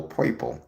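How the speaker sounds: put-on a kids' camp song's "poiple" for purple, lightly recalled; poiple, camp song style. Host recalls how a kids' camp song said poiple. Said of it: "they would always pronounce the word purple".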